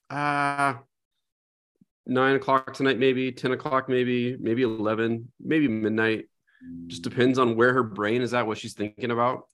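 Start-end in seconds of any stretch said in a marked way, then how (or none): 0.1-6.3 imitating a daughter's undecided pondering, a little higher; noncommittal musing. Parent imitating daughter unsure about her bedtime, noncommittal musing.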